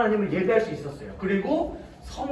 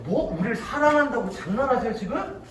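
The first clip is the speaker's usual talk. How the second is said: acted fed-up, aggrieved rant; mildly hammed-up exasperation; mock outburst. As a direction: complain indignantly, as if being toyed with. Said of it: "이스라엘 백성들이 빵 터져버렸어요".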